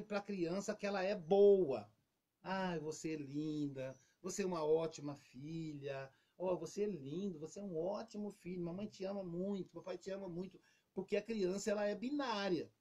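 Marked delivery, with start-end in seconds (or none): 2.4-10.6 tender parent. Retold or imitated. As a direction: coo it to a little child. Pais reforçando que criança é boa. (pai carinhoso, devagar e suave)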